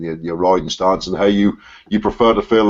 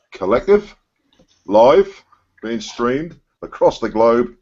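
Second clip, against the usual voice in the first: rising, punchy hype call; hyped announcing; 3 semitones higher, slower than usual. Real, not acted. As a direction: sell it like a showman. Hyping the stream opening.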